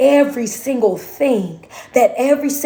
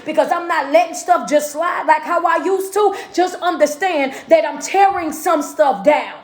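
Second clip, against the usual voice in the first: preaching that climbs higher in pitch; building sermon; 3 semitones higher than usual. Acted. Motivational speaker to the crowd, preaching with rising pitch. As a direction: climb steadily as you preach it.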